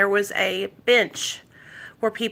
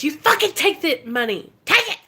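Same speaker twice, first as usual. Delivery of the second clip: insisting; 6 semitones higher than usual. Retold or imitated. To her old classmate who refuses her money, forceful insistence. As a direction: push him to take it, no arguing.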